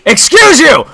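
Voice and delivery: hammed-up indignation; mock indignant. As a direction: exclaim it in mock outrage. Indignant repeat at intruder.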